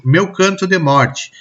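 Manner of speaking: measured verse recitation, each short line set apart; poem recitation. Shown as a demonstration. Teacher reading poem excerpt for rhythm, measured recitation.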